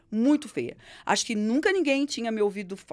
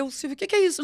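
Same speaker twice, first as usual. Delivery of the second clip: mock crying; 4 semitones higher, faster than usual. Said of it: "começa a chorar".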